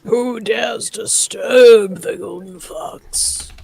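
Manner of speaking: very slow, ominous mock challenge; ancient rasping undead king. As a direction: drag it out like a doom-laden king.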